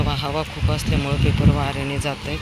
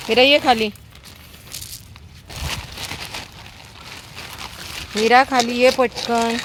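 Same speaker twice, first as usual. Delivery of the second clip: calling a dog; 8 semitones higher than usual. Real, not acted. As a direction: call the dog down from above.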